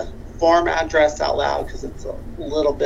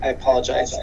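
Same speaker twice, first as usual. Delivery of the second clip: big hall echo; 3 semitones lower than usual. Real, not acted. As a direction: voice ringing in a big echoing room. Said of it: "I do apologize for the echoing".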